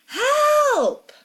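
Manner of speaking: long, high scream for help; loud, drawn-out desperate cry. A narrator's reading. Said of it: "I scream loudly".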